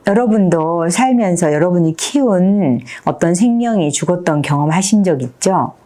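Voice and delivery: ordinary talk, nothing marked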